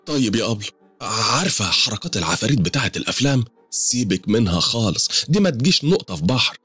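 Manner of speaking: tearful woman. Acted. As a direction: voice the frightened client as she pours out her troubles. Suad tells of the hauntings.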